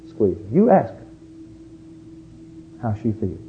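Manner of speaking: normal talking voice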